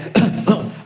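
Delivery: short staged cough; brief fake cough; imitated father's cough. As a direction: mimic dad coughing on purpose. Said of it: "o pai, né?".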